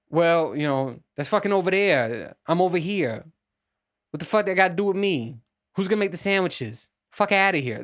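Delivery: lightly voiced New Yorker, pitched a bit up; mock New Yorker brushing it off; typical New York guy. Typical New Yorker answering about the orange sky, lightly imitated dismissiveness. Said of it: "the typical New York answer would be, guy would be like".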